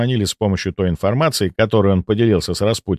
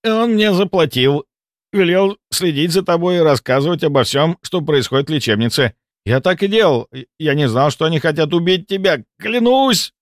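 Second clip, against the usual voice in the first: higher nervous confessing voice; frightened confession; 8 semitones higher than usual. A narrator's reading. Malkov confessing to the narrator, higher nervous voice. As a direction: spill it out, scared.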